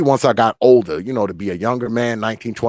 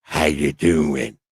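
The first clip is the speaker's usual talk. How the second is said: put-on very deep, low, husky old grandma voice; 7 semitones lower than usual. Describing how older women greet you, the speaker imitates them again: old husky grandma voice. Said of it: "with that old husky grandma voice".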